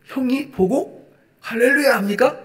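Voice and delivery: normal talking voice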